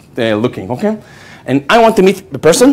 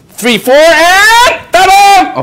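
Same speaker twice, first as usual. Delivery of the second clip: excited ta-da; 6 dB louder, much slower than usual. Retold or imitated. Countdown reveal in retold date.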